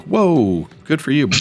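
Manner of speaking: high mock-impressed whoa; sarcastic. Watching the guy flop down, mock impressed. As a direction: tease him on his sheet drop. Player character's sarcastic remark.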